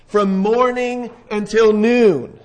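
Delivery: slow, stretched-out phrase; drawn out. Shown as a demonstration. Preacher stressing to the congregation how long the prophets called, drawn out slowly. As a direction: drag it out to make the hours feel long.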